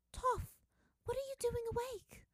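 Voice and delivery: high, stern parental question; a father scolding mildly; father sternly catching his daughter awake. A narrator's reading. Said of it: "Lao Beifong asked her sternly".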